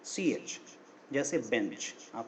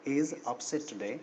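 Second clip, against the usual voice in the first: model sentence; much slower than usual. Shown as a demonstration. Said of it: "तो आप बोलोगे".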